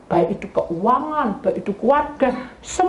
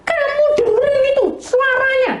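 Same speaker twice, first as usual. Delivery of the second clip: much higher, louder accusing voice; husband scolding angrily; 3 dB louder than usual. Retold or imitated. Dead husband scolding his wife for holding him back, high angry accusation. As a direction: voice the angry husband blaming her. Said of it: "marah-marah".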